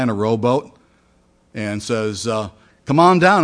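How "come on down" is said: calling out. Acted. Rescuer calls from the rowboat.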